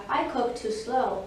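slow tortoise drawl; tortoise character. Acted. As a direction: plod through it as the tortoise. Tortoise's excuse, slow and low.

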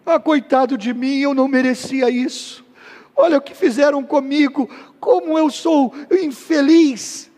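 mock victim moaning; self-pitying whine. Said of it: "Existe o vitimismo".

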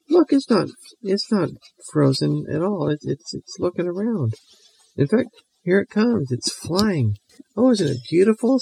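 put-on very high, eager girl voice; gleeful little girl Mary Lou. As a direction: squeal the plan like a mischievous kid.

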